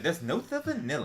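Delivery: a hint of a smooth ladies' man. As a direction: croon it like a lounge lothario. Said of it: "like the ladies' man would have said".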